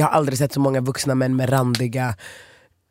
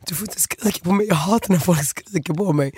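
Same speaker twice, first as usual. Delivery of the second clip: raised, hurried upset plea, retold; mock tearful protest; 4 semitones higher than usual. Guest retelling a protest to a scolding woman, mildly tearful. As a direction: act out being close to tears. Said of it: "jag börjar gråta".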